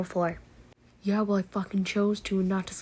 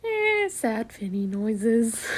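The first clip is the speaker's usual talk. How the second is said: sad noise; much slower than usual. Real, not acted.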